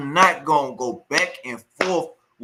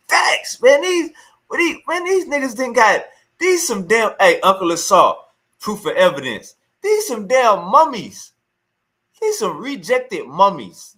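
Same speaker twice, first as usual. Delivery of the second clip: much higher and louder, bursting out in disbelief; real outburst, loud and high, calling them rejected mummies; excited outburst; 7 semitones higher, 7 dB louder than usual. Real, not acted. Erupts in disbelief at debaters.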